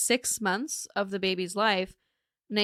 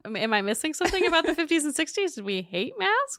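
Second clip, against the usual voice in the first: incredulous; 7 semitones higher than usual. Retold or imitated. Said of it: "I was like".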